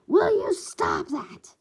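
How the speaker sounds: slow, high, loud reprimand; irritated scold. Acted. Shigaraki scolds Dabi for chasing his tail, loud. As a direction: draw out the annoyance.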